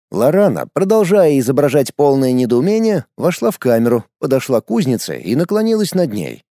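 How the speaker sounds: usual speaking voice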